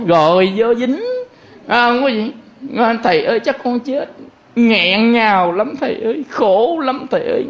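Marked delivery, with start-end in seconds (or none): 3.0-4.1 high-pitched imitation of a despairing follower; mock distressed plea. Follower telling the monk of heartbreak, mock despairing plea. 4.6-7.5 raised-pitch imitation of a heartbroken follower; mock lament. Abandoned follower lamenting to the monk, mock choked-up plea.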